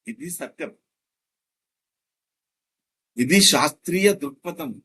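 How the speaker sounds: loud, forceful proclamation; emphatic declaration. Acted. Lecturer proclaims his point to the audience, loud and emphatic. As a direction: hammer the conclusion home.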